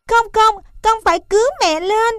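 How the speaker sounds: high, fast, insistent calf voice; a little one refusing to leave, pitched high and hurried; stubborn baby elephant. A narrator's reading. Calf refuses mother's order to flee, high insistent pleading.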